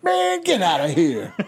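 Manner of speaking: puffed-up screechy big shot; pompous shrill tyrant. Pretend. Boastful boss character bit, laughing.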